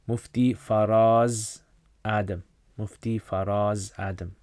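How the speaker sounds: slow, spelled-out careful naming; slow dictation. Real, not acted. Host slowly dictates a scholar's name for viewers to google.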